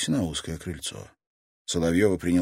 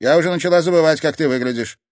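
much higher and louder, mock reproach; sarcastic grandmother voice, raised; teasing grandmother; 11 semitones higher, 10 dB louder than usual. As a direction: needle the girl for staying away.

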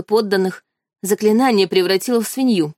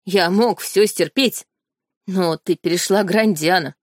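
threatening tone. Acted. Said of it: "угрожающим тоном прибавил Эрик".

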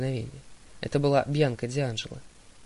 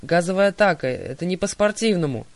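higher, much louder outraged yell; indignant shout; 4 semitones higher, 6 dB louder than usual. A narrator's reading. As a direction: yell the complaint, coughing. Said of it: "крикнула Талия".

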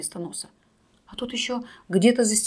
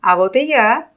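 loud shout; 8 dB louder than usual. A narrator's reading. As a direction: call it out loud to the crowd. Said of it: "громко крикнул хозяин".

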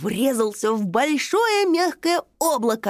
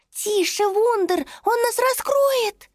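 urgent whisper; 12 semitones higher than usual. Acted. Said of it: "взволнованно зашептала Мисоля".

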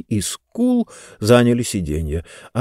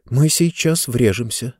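shaky, hushed, frightened; trembling hushed pleading. Acted. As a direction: tremble as you whisper it. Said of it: "дрожащим голосом проговорила Занна".

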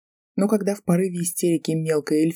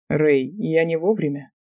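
mocking; slower than usual. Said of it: "насмешливый голос Никса".

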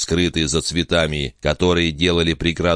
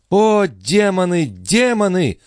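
high, slow cry to heaven; high despairing girl voice; anguished exclamation; 3 dB louder, slower than usual. A narrator's reading. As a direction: wail in despair, arms raised. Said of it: "воскликнула Лоренцо".

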